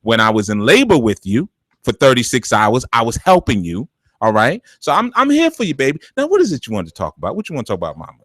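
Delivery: a hint of a sweet, guilt-tripping mom; lightly voiced mother working the guilt angle; manipulative mother. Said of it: "she go".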